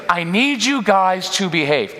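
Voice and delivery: high, slow pleading. Shown as a demonstration. Parent begging kids to behave, high and pleading. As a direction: drag it out, begging. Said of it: "that pleading tone".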